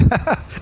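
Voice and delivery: brief laugh to himself; small amused laugh; short chuckle. Real, not acted. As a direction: let out a quick chuckle. Preacher chuckles after quoting verse.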